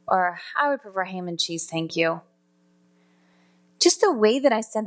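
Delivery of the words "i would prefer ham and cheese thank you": different tone of voice. Shown as a demonstration. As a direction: say it offhand, with little effort. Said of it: "three different tones of voice".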